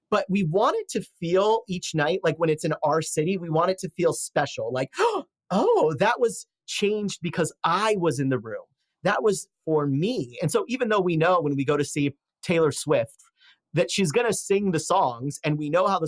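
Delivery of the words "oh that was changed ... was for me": mock gasp, then slow, drawn-out wonder; awed concertgoer. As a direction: play a touched fan, savoring it slowly. Voicing a thrilled concertgoer.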